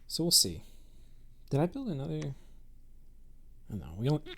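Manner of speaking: talking through hiccups; hiccuping between words. Real, not acted. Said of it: "Sorry, I've got the hiccups".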